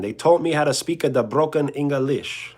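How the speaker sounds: mock Italian broken English; lightly hammed-up Italian accent. Streamer on what parents taught, in an Italian English accent. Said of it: "an Italian English accent".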